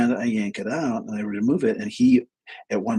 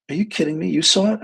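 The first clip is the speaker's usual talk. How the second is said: acted disbelief, climbing higher; incredulous; 7 semitones higher, 3 dB louder, faster than usual. Client learning the therapist saw it too, incredulous. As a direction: imitate astonishment, pitch jumping on the question.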